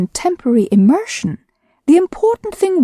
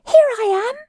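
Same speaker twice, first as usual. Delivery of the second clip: squeaky Roo; 14 semitones higher than usual. A narrator's reading. Roo showing off from the middle of his pool, squeaky. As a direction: squeak it like a tiny proud joey. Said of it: "squeaked Roo".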